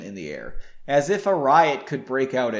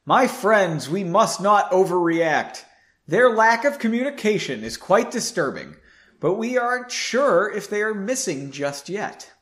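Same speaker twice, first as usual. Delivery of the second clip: a raised, calming voice over the room; speaking loudly; 4 semitones higher than usual. Acted. Roland calming the room, speaking loudly. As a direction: address the room firmly, a bit louder. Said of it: "Roland spoke loudly".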